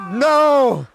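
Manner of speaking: high shouted no; loud no. Retold or imitated. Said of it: "it was like".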